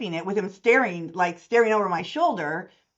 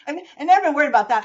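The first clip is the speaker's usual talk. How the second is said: laughing; 9 semitones higher, 8 dB louder, much faster than usual. Real, not acted. Laughing brag, fast.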